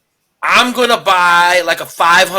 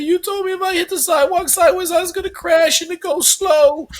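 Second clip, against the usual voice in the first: put-on kid voice; 12 semitones higher than usual. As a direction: voice the crashed kid, higher. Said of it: "He said".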